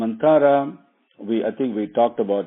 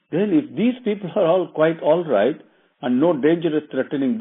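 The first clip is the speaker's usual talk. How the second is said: queen questioning; 4 semitones higher than usual. Retold or imitated. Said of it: "she asked".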